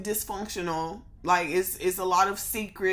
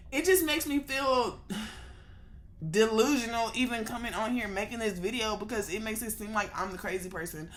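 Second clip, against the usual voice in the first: snotty crying; 3 semitones higher than usual. Real, not acted. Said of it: "I've been crying, and that's why my nose is running".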